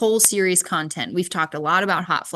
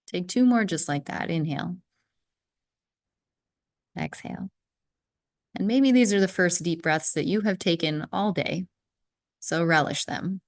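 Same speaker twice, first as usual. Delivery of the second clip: calm, unhurried breathing guide with long pauses; guided breathing. Real, not acted. Leads a breathing exercise.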